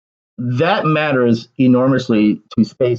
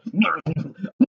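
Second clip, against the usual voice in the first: mock Joker laugh; 3 semitones higher, 8 dB quieter than usual. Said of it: "I'm gonna start laughing like Joker".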